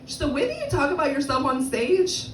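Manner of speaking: mock polite white woman; thin white woman. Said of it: "she was like".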